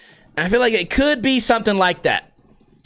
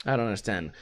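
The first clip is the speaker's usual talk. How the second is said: ordinary talk, nothing marked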